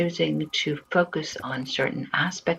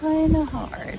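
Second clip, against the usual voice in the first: breathy whispered repeat, higher; 14 semitones higher, 3 dB louder than usual. Shown as a demonstration.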